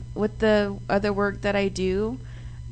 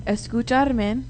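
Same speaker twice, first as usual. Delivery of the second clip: broken up for repeating; much slower than usual. Shown as a demonstration. Host teaches co-hosts a Spanish sentence, broken up. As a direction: say it as one separate chunk. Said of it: "I'm gonna break it up".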